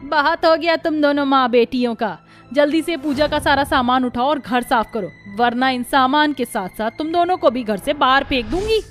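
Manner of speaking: angry threat. Acted. In-law threatens mother and daughter.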